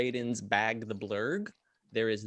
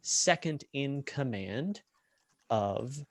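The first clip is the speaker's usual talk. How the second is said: measured scene-setting with lingering pauses; game master narration. Acted. Game master describing a gambling tent to players, measured scene-setting narration. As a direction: draw out the key details, pausing between images.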